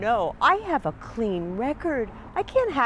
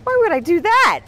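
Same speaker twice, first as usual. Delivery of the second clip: shrill anger; 8 semitones higher, 10 dB louder than usual. Acted. Karen confronting officer, indignant.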